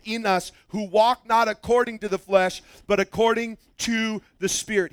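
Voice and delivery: measured, even public reading; scripture reading. Real, not acted. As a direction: read it out firmly to a standing congregation. Reads scripture aloud.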